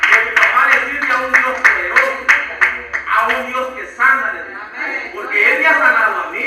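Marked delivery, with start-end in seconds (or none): 0.0-4.3 put-on loud, fervent preacher's declaration to his child; proclaiming to daughter. Father proclaims faith to sick daughter. 5.1-6.4 put-on loud, fervent preacher's declaration to his child; proclaiming to daughter. Father proclaims faith to sick daughter.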